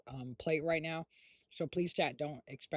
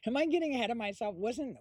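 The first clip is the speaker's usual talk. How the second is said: laughing; 10 semitones higher, 5 dB louder than usual. Real, not acted. Catches herself, laughing.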